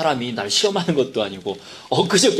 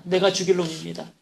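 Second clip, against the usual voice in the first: '내가 죽일 놈입니다' repeated higher, mild mock wailing; imitated wail; 4 semitones higher than usual. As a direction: raise the plea on '내가', lightly crying. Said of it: "엉엉 울기 시작을 하더랍니다". ('내가'를 높여 울부짖듯 흉내)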